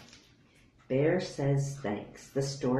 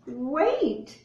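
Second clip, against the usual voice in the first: urgent wait; 10 semitones higher than usual. Acted. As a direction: halt everyone with one word. Bear stops party.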